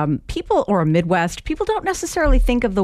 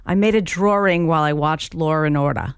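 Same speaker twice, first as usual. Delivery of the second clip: Long Island accent. Shown as a demonstration. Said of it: "revert to my long-lost Long Island accent".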